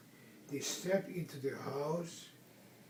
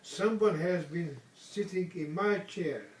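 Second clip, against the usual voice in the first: a touch louder mama bear; Mama Bear's middle-sized voice; 2 semitones higher, 5 dB louder than usual. Acted. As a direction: read it as a mother bear, mildly voiced. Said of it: "in her middle-sized voice".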